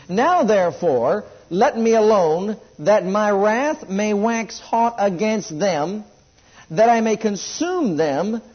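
slow, weighty King James reading; scripture reading. Acted. Preacher reading God's wrath aloud, slow and solemn. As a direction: read God's words slowly, with weight.

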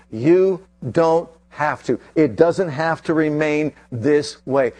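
"You don't have to." stretched slowly and firmly; slow reassurance. Shown as a demonstration. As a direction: say it slowly, letting it sink in.

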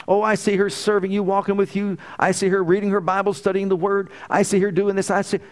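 fervent prayer. Retold or imitated. Father praising God on his knees for his daughter. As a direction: pour out thanks to the Lord with fervor.

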